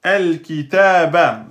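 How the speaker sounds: el kitaba said slowly and distinctly; slow Arabic demo. Shown as a demonstration. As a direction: sound out each syllable of el kitaba. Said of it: "Et là, on a".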